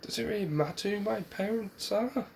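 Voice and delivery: mildly exasperated, lifting in pitch; Naruto. Acted. Boy questions why his parentage matters, sighing. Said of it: "Naruto just sighed this".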